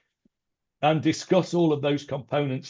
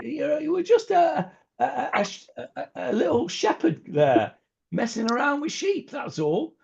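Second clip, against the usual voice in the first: dismissive voicing; 9 semitones higher than usual. Voicing Hashem dismissing shepherd past.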